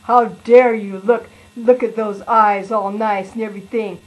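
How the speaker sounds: a hint of huffy, offended hair; mildly voiced hair scolding the eyes; indignant hair. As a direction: lightly play the hair taking offence. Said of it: "your hair going".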